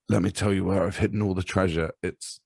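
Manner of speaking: dramatic dying confession cut short; mock deathbed voice trailing off before the secret; mock last words. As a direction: play a dying man who stops mid-secret. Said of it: "do you know what it'd be?".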